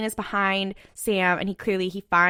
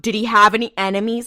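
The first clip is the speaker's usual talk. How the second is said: louder, flat-out blunt question; 6 dB louder than usual. Retold or imitated. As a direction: ask it bluntly like a cop. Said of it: "you could just say".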